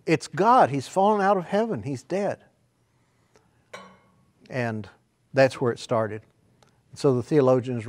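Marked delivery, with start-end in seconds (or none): 0.1-2.4 high, loud panicked cry; lightly voiced rooster panicking over an acorn; cartoon rooster alarm. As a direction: squawk it like a startled rooster. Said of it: "looked at it and went".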